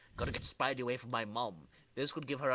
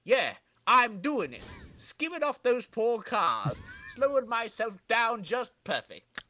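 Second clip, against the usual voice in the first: higher, louder triumphant cry, slowing on the cars; triumphant shout; 7 semitones higher, 3 dB louder, slower than usual. Acted. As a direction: crow with glee as the stunt works. Villain triumphs skating down cars.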